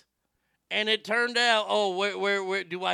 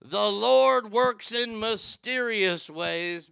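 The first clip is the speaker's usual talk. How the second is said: slow, lightly preachy reverend voice; mock reverend; 3 semitones higher, 4 dB louder, slower than usual. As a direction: intone it like a pastor, slowly. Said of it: "as the good Reverend would probably say".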